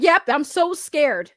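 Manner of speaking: slow, deadpan "so scared"; mock fear with no fear at all; sarcastic scared. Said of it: "hear the fucking scaredness in my voice".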